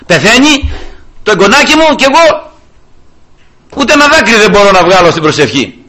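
high, loud grieving plea; anguished prayer. Retold or imitated. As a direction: lament that no tear will come. (ψηλή, δυνατή θρηνητική προσευχή)

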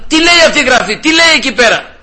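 high, anxious questioning; alarmed demand. Acted. Shaken king asking the wise men about the wall writing, high and anxious.

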